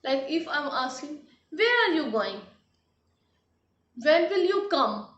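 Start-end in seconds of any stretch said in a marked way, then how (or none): 1.5-2.4 "Where are you going?" with the voice lifted high, then falling; questioning voice. Shown as a demonstration. Teacher showing how questions sound, "Where are you going?" raised in pitch. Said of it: "our voice goes a bit higher". 4.0-5.1 "When will you come?" lifted high and louder, then dropping; question modulation. Shown as a demonstration. Teacher demonstrating questions, "When will you come?" loud with up-and-down tune. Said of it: "voice modulation goes up and down".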